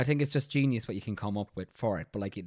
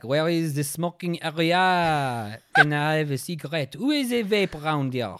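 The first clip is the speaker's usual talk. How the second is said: higher, louder, slow hammed-up French accent; 6 semitones higher, 7 dB louder, slower than usual. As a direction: play a cheesy Frenchman named in the pub. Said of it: "I think Pierre would".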